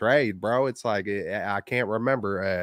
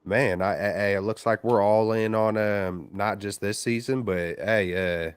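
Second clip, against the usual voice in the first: over the phone. Real, not acted. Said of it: "another caller on the line".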